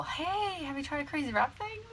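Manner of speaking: high, soft sing-out sales opener; mock perky pitch. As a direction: parody an over-eager salesperson approaching a stranger. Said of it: "I don't wanna be all".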